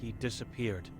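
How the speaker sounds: a hint of a stern old seer, guarded; wary old Vera sizing up a stranger; blind old woman.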